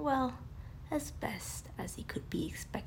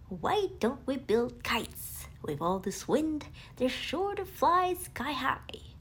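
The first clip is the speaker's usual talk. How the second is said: Tigger excited; 3 semitones higher, 5 dB louder than usual. Acted. Tigger pitching kite idea.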